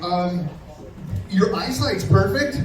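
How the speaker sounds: a beat, then a slow hesitant reply; stall, then drop the lame compliment slowly; hesitant deadpan. Retold or imitated.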